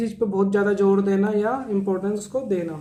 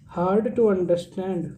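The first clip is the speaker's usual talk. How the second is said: very slow, word by word; slow dictation; much slower than usual. Shown as a demonstration. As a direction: dictate each word slowly for notes. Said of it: "teacher dictates meaning slowly".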